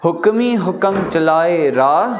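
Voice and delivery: a teacher reciting scripture for the class; slow scripture recitation. Shown as a demonstration. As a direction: recite हुक्मी हुक्म चलाए राह slowly, word by word. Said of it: "teacher recites line for class".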